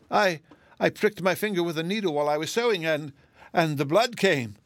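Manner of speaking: high, halting tearful voice. A narrator's reading. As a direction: stammer it out mournfully. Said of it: "she sobbed".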